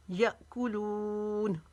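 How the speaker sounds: यअकुलून with a sharp catch after य, लू drawn out; slow यअकुलून, glottal jerk then long लू; jerked hamza, long लू. Shown as a demonstration. Teacher showing hamza with a jolt, यअकुलून ending long. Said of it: "इसको लू को लंबा खींचेंगे".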